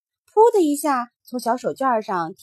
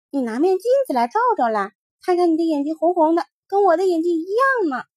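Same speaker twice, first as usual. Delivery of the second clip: teasing little rabbit; 5 semitones higher, 3 dB louder, faster than usual. Acted.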